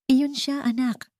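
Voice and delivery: loving voice. A narrator's reading. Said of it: "Ang boses ay puno ng pagmamahal".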